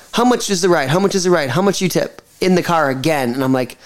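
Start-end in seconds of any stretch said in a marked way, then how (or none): 0.1-2.2 imitated Uber driver. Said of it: "he could barely speak English".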